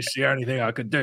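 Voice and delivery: mock East End London accent; Ray Winston. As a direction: put on a jokey Cockney actor voice. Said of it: "he's the guy from the East End of London".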